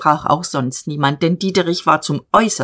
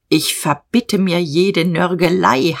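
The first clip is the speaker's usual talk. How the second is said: stern demand. Acted. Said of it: "heischte Diederich".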